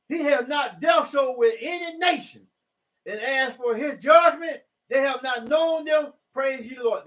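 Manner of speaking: slow, high preaching cry; drawn-out pulpit proclamation; emphatic reading. Real, not acted. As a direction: stretch each word for the congregation.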